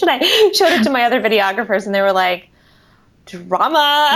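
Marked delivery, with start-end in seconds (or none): 3.3-4.2 laughing verdict. Retold or imitated. Videographers' reaction quoted.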